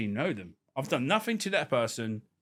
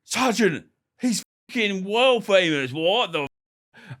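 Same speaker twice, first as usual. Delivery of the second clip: excited cop; 7 semitones higher, 4 dB louder, slower than usual. Retold or imitated. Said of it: "they're like".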